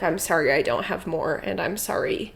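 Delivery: a sheepish apology that fades to a whisper; mock humiliated apology. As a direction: shrink away in embarrassment till it's only breath. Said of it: "like, abject humiliation".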